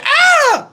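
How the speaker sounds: high, drawn-out mock scream; imitated yelp. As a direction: yelp like a little girl hit by a cart. Little girl hit by cart cries out.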